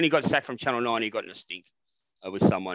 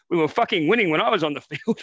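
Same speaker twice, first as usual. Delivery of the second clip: put-on German accent; 4 semitones higher, 5 dB louder than usual. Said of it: "I'll try and do it in a German accent".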